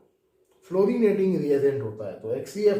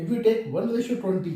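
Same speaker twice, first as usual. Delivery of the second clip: slow dictation; 8 semitones higher, 3 dB louder, much slower than usual. Shown as a demonstration. Teacher dictating rule slowly.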